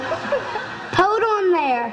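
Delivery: slow, laughing "hold on there". Acted. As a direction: drag it out through a laugh. Farmer stops, with laugh.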